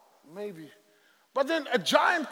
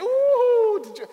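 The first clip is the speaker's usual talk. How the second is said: gossiping soldiers; 12 semitones higher, 6 dB louder, slower than usual. Acted. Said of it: "they talk amongst themselves and they say".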